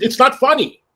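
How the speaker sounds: high, indignant reprimand; retold scolding. Boss ends telling-off of housekeeper, indignant reprimand. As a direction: shut down his amusement.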